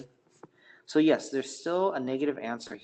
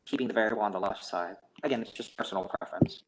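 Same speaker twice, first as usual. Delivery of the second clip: audio cutting out. Real, not acted. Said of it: "Your audio is cutting out".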